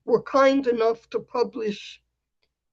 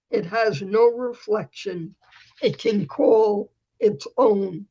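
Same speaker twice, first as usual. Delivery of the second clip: measured, deliberate poem reading with pauses; poetry reading. Acted. Poet reading a collaboration to the group, measured poetry reading. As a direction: read it line by line, weighting the key words.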